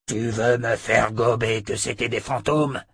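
angry, incredulous outburst; exploding emperor. A narrator's reading. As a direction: explode at a subordinate's excuse. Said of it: "explosa l'empereur". (explosion de colère incrédule)

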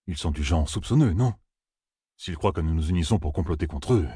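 Jack, considering. Acted. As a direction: weigh the plan aloud with mild doubt.

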